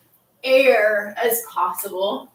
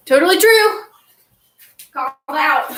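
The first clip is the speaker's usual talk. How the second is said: laughing; 5 semitones higher, 7 dB louder than usual. Real, not acted. Laughing at being called out.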